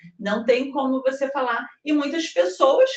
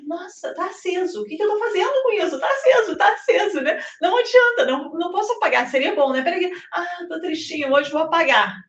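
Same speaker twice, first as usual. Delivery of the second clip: playful inner monologue; 6 semitones higher than usual. Pretend.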